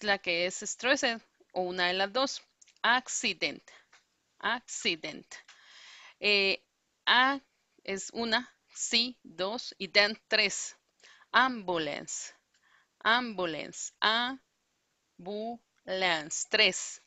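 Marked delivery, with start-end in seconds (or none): 2.8-3.6 Accident with the first syllable hit hard; stress on ACcident. Shown as a demonstration. Teacher drilling Accident, first syllable strong. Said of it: "la primera es fuerte". 11.3-15.6 Ambulance with the first syllable stressed and stretched out. Shown as a demonstration. Teacher repeating ambulance for the class, first syllable strong. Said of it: "la primera es fuerte".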